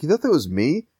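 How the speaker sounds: high, amused villain voice, laughing into it; Pagan impression. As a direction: play the smug villain, breaking into laughter. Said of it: "He's like".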